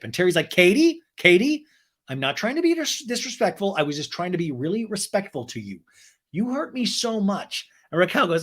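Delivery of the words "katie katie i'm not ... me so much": mock hurt whimper. Terry tearfully pleads.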